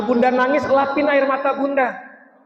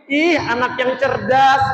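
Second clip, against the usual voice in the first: gentle praise; 3 semitones higher, slower than usual. Shown as a demonstration. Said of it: "bilangnya gini".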